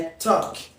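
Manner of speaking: teacher showing talk with no L sound; talk without the L. Shown as a demonstration. Teacher showing students talk without the L. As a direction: say talk with a silent L, like tok. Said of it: "essa letra L não tem som".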